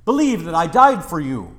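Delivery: lightly acted, emphatic commands; Jesus urging Thomas. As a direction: press a doubter to believe, firmly. Acting Jesus commanding doubting Thomas.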